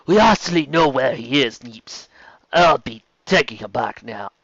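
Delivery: the voice meant for another character; slipping into the wrong character. Acted. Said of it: "Sorry, completely wrong character".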